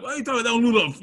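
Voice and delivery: high, disbelieving question; incredulous friends. Retold or imitated. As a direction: react as if it's unthinkable.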